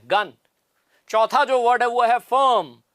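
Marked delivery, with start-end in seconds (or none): 0.0-0.3 गन with a short uh vowel; demonstrated pronunciation. Shown as a demonstration. Teacher shows how गन is spoken, demonstrated pronunciation. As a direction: model गन as one short-vowel syllable. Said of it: "गन को ऐसे बोलते हैं".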